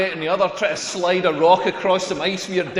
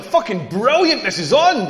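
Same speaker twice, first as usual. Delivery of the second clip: too loud, excited; 2 semitones higher than usual. Retold or imitated. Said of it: "I wished I'd said it a little bit quieter".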